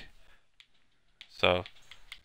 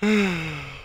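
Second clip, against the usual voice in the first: yawn; 9 semitones higher than usual. Real, not acted. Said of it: "heard the yawn".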